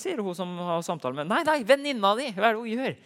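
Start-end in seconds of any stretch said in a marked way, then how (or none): 1.3-3.0 alarmed demand. Retold or imitated. Woman demands what friend does.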